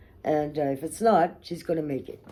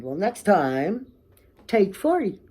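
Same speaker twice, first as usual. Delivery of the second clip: harsh retort; 4 semitones higher, 5 dB louder, slower than usual. Retold or imitated. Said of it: "that's pretty harsh to say".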